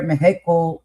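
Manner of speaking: Mexico said as "Meh-hee-co", aping his botched version; mocked mispronunciation. Co-host mimicking how he mispronounces a country, mock mispronunciation. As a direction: say Mexico with a breathy h for the x, mockingly. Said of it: "mispronunciating words, but he over here".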